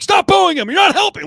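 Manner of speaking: high, loud stadium yell; turning round in the bleachers to yell at booing fans. Retold or imitated. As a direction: shout over the bleachers. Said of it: "I'm like".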